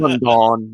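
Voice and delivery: London with a full, drawn-out 'don'; mock the over-pronounced second syllable of London; exaggerated pronunciation. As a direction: stretch London into lun-DAWN. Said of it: "No one says it like that".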